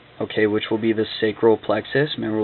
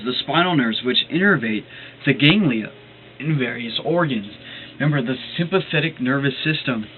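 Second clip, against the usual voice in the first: talking through hiccups; hiccuping between words; 3 semitones higher than usual. Real, not acted. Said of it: "excuse me, I got the hiccups".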